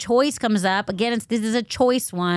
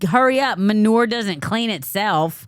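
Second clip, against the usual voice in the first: louder, slowing into the punchline; mock impatient order; 4 dB louder than usual. Host quoting the cowboy chivvying her to work, mock impatient. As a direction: imitate a boss hurrying someone along, loudly.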